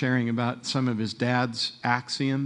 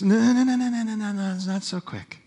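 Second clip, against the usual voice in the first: quick urgent reassurance; 8 semitones higher than usual. Acted. Jesus quickly stopping Jairus from despair, urgent then settling. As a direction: cut him off quickly then calm it. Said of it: "very, very quickly says".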